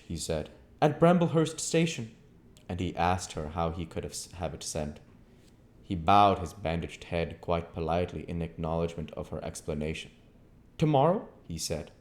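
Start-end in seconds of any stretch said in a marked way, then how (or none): 0.8-2.1 raised, clipped-sounding stranger; a lightly voiced curt stranger; a hint of the stranger; stranger's voice. A narrator's reading. Visitor voiced. 10.8-11.3 raised, clipped-sounding stranger; a lightly voiced curt stranger; a hint of the stranger; stranger's voice. A narrator's reading. Visitor voiced.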